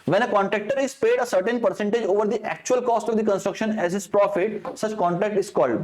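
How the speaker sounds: slow, deliberate exam reading; question read-out. Acted. Teacher reading an exam question to students, slow and deliberate. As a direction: read each word of the question out slowly.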